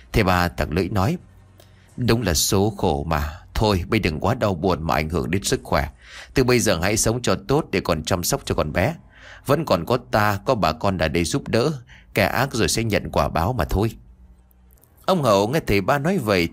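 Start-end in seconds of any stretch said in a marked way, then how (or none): 2.0-13.9 consoling elder. Acted. Elder consoles mourning man.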